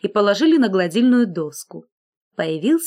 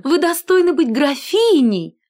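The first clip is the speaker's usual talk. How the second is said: higher, gushing; eager flattery; 7 semitones higher, 4 dB louder than usual. A narrator's reading. Collar flattering the scissors, higher. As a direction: lay it on thick.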